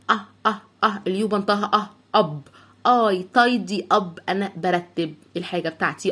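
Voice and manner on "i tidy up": I tidy up, very slowly and deliberately; slow model phrase. Shown as a demonstration. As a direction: draw out each word. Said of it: "teacher models phrase". (ببطء شديد)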